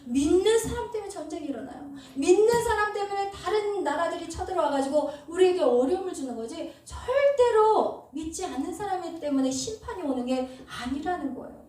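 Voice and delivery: high, loud, emphatic sermon delivery; forceful preaching. Acted. Preacher warning the congregation that believers' wrongs bring war, forceful preaching.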